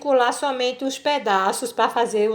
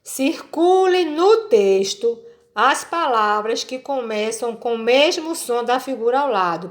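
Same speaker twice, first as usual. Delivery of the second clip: reading the instruction aloud. Shown as a demonstration. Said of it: "ele diz assim".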